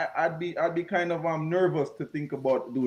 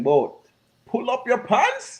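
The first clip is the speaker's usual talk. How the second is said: put-on loud, slow, raised command to a young man; firm call out; 6 semitones higher, 6 dB louder, slower than usual. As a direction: call it out firmly and slowly, like correcting a kid. Telling young men in school.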